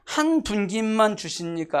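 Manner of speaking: slow, drawn-out mock protest; retold complaint. Preacher quotes Joseph's descendants to the congregation, complaining. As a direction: stretch it out as an aggrieved complaint. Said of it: "불만을 토했다니까".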